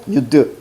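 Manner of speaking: 유드 with the coda turned into a d; sound-change demo. Shown as a demonstration. Teacher shows ㅊ changed to ㄷ, pronunciation demo of 유드. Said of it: "이렇게 가셔야 됩니다".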